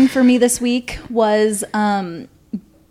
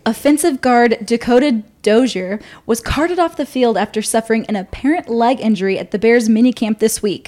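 sports news read. Acted. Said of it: "I have no notes".

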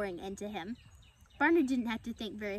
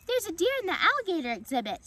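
high, loud alarmed cry; little girl's scream; 8 semitones higher, 6 dB louder, faster than usual. A narrator's reading. Little girl spotting deer among alligators, acted high scream. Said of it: "screamed a little girl".

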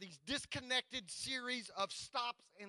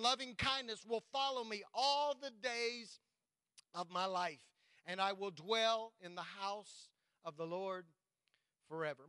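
psalm recitation. Acted. Preacher reciting Psalm 23 to the congregation, proclaiming.

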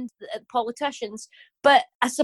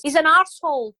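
wee Glaswegian woman; 5 semitones higher, 5 dB louder, faster than usual. Acted. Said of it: "a wee Glaswegian woman in a headscarf".

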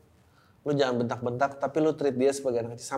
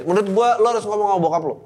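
emphatic advice; 5 semitones higher, 6 dB louder, faster than usual. Real, not acted.

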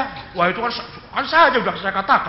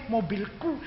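jangan keras-keras; 7 dB quieter, slower than usual. Shown as a demonstration. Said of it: "jangan keras-keras kunya".

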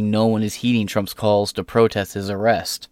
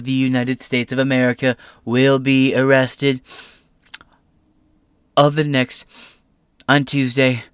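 pitched up, loud and indignant; mock Trump outrage; 3 semitones higher, 5 dB louder than usual. Host reading Trump's post aloud, mock outrage. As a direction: read the post like an outraged rally speech.

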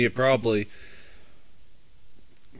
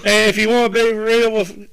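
wrestling promo; 8 semitones higher, 6 dB louder than usual. Pretend. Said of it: "Are you cutting a wrestling promo?".

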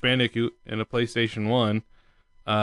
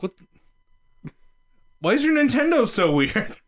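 put-on baffled kid; 10 semitones higher than usual. Child self quoted.

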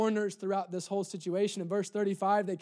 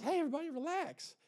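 calming the crowd; 7 semitones higher, 8 dB quieter than usual. Retold or imitated. Acts Jesus calming the mourners.

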